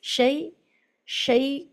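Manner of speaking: شی with a short light i vowel; correct shi. Shown as a demonstration. Teacher giving students the correct sound of shi. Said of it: "جو ہے صحیح آواز ہے".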